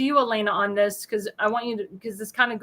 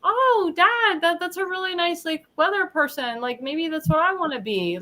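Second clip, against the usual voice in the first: put-on child voice; 5 semitones higher than usual. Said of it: "a child that said".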